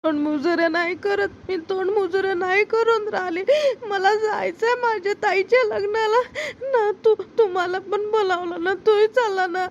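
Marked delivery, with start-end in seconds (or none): 1.6-9.6 pleading through tears to her mother; tearful begging, voice catching; crying. Acted. Girl crying to her stepmother to let her go to the wedding, tearful.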